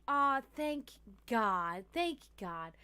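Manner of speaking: long drawn-out, relieved exhale of words; exaggerated relief. Worker hears coworker is on pizzas, exaggerated relief. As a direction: stretch it out with hammed-up relief.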